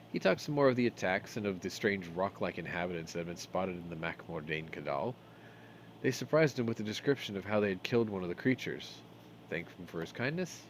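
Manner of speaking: measured storybook reading; game text read as a story; story narration. A narrator's reading. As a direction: read the tale aloud, scene by scene.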